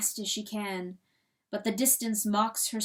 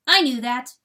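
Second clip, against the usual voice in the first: calm; 3 semitones higher, 11 dB louder than usual. A narrator's reading. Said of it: "Chanticleer says calmly".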